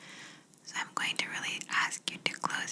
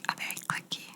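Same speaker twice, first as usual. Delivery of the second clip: inaudible whisper; 4 dB quieter, faster than usual. Shown as a demonstration. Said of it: "inaudible whispers that sound like this?".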